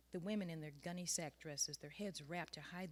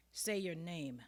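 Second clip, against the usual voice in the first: a hint of an Irish brogue, commanding; commanding Irish overseer; 5 dB louder, slower than usual. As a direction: bark the order in a light Irish accent. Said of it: "the overseer commanded in a thick Irish accent".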